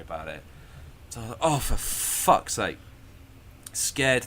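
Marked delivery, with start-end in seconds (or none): 1.4-2.8 exasperated. Retold or imitated. Retells angry reaction to being scared.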